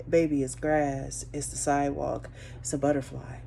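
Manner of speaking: put-on calmly name things for a toddler; gentle explaining. Mom answering her curious baby.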